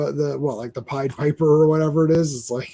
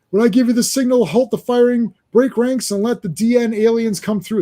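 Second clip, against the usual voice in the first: raised, urgent order to the troops; commanding officer; 6 semitones higher than usual. Acted. Reading Superman's orders aloud, a commanding voice. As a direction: bark the plan like a field commander.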